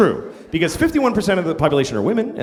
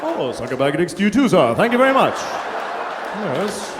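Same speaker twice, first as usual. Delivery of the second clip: mock polite greeting. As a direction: pretend cheery pleasantries to a passer-by. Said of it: "like a greeting".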